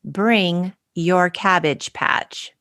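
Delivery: slow, deliberate reading of the invite; read out slowly. Retold or imitated. Reading the party invitation aloud, slow and deliberate. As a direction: spell out "Bring your Cabbage Patch" slowly, leaning on "Bring". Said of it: "It said on the invitation".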